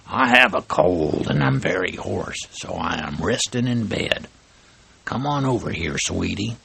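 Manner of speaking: lightly voiced sly wolf, mock hoarse; a hint of a wolf playing a sick old lady; wolf faking granny. Wolf posing as grandma.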